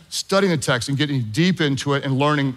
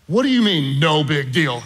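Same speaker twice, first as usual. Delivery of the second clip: incredulous. Retold or imitated. Nervous student pilot to calm instructor, incredulous. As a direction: question it in mild disbelief.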